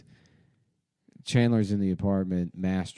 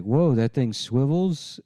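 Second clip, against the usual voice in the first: slow, higher, louder dumb wonder; amazed; 6 semitones higher, 6 dB louder, slower than usual. Retold or imitated. Joey marvels at the swivel chair, amazed. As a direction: gawk at the chair.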